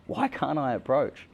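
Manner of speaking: breathy whisper, slow on the last words; whispered frustration. Retold or imitated. Alone on the beach, whispering his frustration to himself. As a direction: hiss it to yourself in despair. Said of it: "I'm just like".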